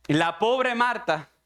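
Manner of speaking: loud, fast pulpit cry; preacher quoting Spurgeon to the congregation, loud and fast; impassioned preaching. Acted. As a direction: preach the quote at full force. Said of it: "Miren cómo lo dice Spurgeon".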